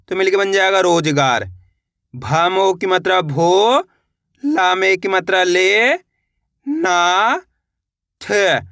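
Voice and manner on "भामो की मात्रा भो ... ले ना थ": slow drill, "भो", "ले", "ना" held long and rising; syllable-by-syllable spelling. Shown as a demonstration. Teacher leading learners to repeat along, slowly spelled out. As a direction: stretch "भो" and "ले", "थ" on its own. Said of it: "मेरे साथ साथ इनको रिपीट करना है".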